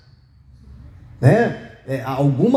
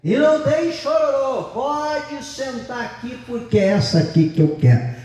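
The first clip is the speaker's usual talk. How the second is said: put-on defiant child; 6 semitones higher than usual. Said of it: "Falando pra avó dele".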